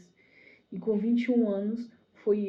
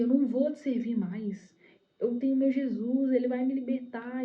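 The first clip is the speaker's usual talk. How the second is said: raised, higher acted refusal; defiant declaration; 5 semitones higher, 3 dB louder than usual. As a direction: stand up to the enemy with conviction. Defiant refusal to the devil, retold.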